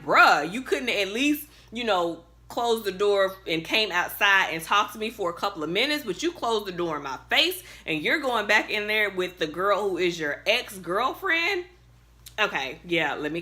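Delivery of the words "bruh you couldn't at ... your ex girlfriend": angry rant. Retold or imitated. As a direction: vent at him like he's right there. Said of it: "I'm mad".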